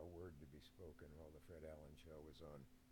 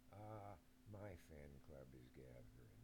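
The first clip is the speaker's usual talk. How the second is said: Fred Allen; 4 semitones lower, 4 dB quieter than usual. Retold or imitated. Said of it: "to which he could say".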